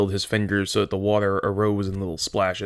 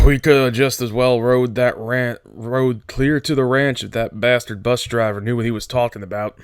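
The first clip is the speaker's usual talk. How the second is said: angry; 2 semitones higher, 3 dB louder than usual. Acted. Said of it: "He said angrily".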